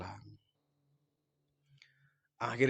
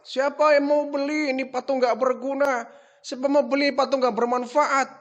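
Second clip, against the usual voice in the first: higher, cheerful hawker's cry calling the statues useless; the wrong sales pitch; 7 semitones higher than usual. Retold or imitated. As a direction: proudly call out the wrong slogan. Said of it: "Kamu salah bilang".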